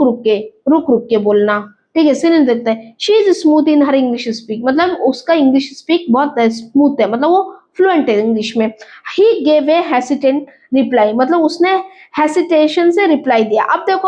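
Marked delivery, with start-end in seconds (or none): 3.0-4.6 slow reading. Shown as a demonstration. Teacher reads English example sentence. 9.2-11.1 slow reading. Shown as a demonstration. Teacher reads English example sentence.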